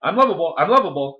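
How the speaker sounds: high, forceful affirmations, each falling at the end; insistent repetition. Acted. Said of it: "and you keep saying it".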